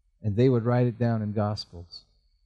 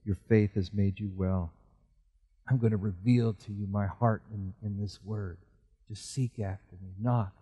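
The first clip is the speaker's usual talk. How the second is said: gentle Jesus; 3 semitones lower, 4 dB quieter than usual. Acted. Jesus voiced answering.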